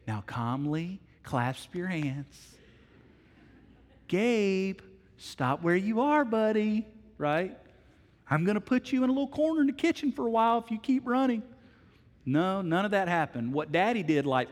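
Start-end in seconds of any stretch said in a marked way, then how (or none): 0.1-2.6 slow, soft mock-calm parenting voice; calmly, like a parenting book. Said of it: "every parenting book would say". 4.1-6.8 mock gentle parent. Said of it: "every parenting book would say". 8.3-11.4 higher, fast sing-song parenting voice; mock patient parent. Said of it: "every parenting book would say".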